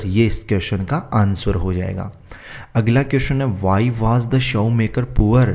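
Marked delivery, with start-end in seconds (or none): 3.6-5.4 slow dictation. Shown as a demonstration. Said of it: "ठीक है, शो maker poor यानी गरीब क्यों था".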